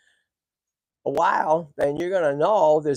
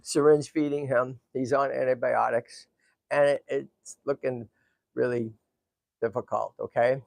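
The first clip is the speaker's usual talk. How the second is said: grave; 4 semitones lower, 4 dB quieter than usual. Real, not acted. Owner updating viewers on hospitalised tortoise, grave and halting.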